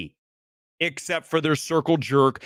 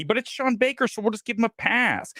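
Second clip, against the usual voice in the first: mocking apologist; 6 semitones higher than usual. Mimics fans excusing the director.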